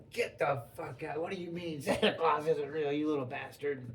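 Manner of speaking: lightly voiced cranky grandma; a hint of an angry old lady; mock grandma. Imitating grandma scolding the kid who doubts Santa.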